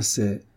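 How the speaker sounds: mot laissé en suspens; hésiter avant d'avouer; hésitation. A narrator's reading. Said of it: "elle hésita". (hésitant, la phrase suspendue)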